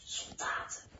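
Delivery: very soft, whispered warning; hushed alarm, all whisper; almost inaudible whisper. A narrator's reading. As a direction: breathe the warning so nobody outside hears. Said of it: "fluistert hij bijna onhoorbaar".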